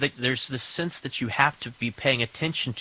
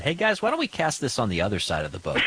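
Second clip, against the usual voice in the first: smart aleck. Pretend. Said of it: "smart aleck ... said".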